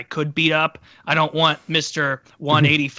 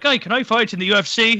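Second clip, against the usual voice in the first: mock eager Irish guy; 7 semitones higher than usual. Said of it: "some Irish guy came over".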